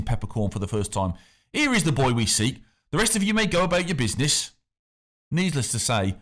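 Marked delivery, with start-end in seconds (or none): 1.5-4.5 lightly voiced smug official; a smooth, superior official waving people off; the factor. A narrator's reading. The factor sends the crowd away, lightly voiced and smug.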